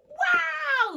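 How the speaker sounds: high, loud cry of wonder; a huge delighted gasp of a word; amazed wow. Acted. Slug Norman admiring the snails, loud amazed wow. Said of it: "said Norman".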